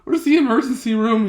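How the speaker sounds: high, loud imitation of a sobbing dad; hammed-up tearful plea for help; mock sobbing. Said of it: "He's sobbing".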